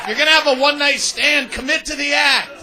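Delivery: fired-up shouted demands; shouting rant. Real, not acted. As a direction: yell it like a coach. Ranting commands at audience.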